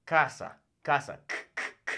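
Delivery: casa with a crisp K at the start; hard K sound. Shown as a demonstration. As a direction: stress the K in casa. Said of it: "It makes that K sound".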